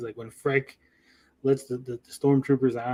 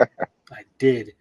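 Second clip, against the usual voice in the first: mock answer with a laugh in it; laughing Obi-Wan; 3 dB louder than usual. Mocking Obi-Wan admitting he knew her mother, laughing. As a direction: chuckle through the admission. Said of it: "He's like".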